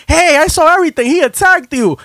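high, eager bystander voice; lightly voiced lady witness. Lady bystander on the train telling him she saw everything, eager and high. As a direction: chime in like a helpful stranger.

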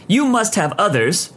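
insist, pitch pushed up; insistent. A narrator's reading. Customer refusing to believe the clerk, insistent. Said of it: "she insists".

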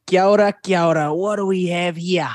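Kiwi game-character greeting; New Zealand accent. Acted. Showing hosts an in-game voice line, New Zealand accent. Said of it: "a really good accent".

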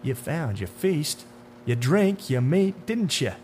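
drawn-out, taunting menace; slow, knowing tormentor with swinging pitch; sinister man in dark suit. Acted.

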